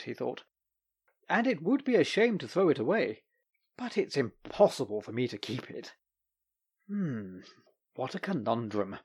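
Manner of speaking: lightly voiced doctor, puzzling to himself; a hint of a fussy man thinking aloud; Doctor musing. The Doctor pondering the candelabra alone, musing.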